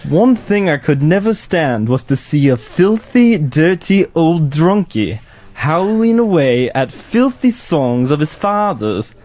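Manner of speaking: a reading of Alex's lines in an attempted English accent. Intern reads Alex's lines aloud for the radio hosts in an English accent. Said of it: "read any of the Alex lines".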